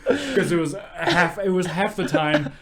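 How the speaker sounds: talking through helpless laughter; high, loud words breaking into laughs; real laughing. Real, not acted. Friend praising co-host's joke, laughing hard.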